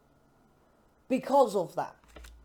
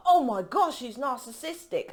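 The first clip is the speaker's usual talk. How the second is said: a hammed-up shocked gasp; mock gasp; 3 semitones higher than usual. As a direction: gasp it like a scandalised gossip. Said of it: "You be like".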